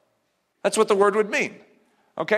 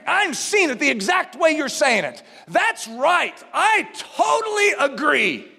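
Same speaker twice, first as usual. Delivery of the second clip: higher, eager acted agreement; excited agreement; 5 semitones higher than usual. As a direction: burst in with delighted agreement. Acting eager agreement with someone.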